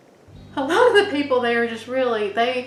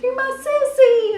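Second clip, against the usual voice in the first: high mom imitation; 8 dB louder than usual. Mother voiced in story.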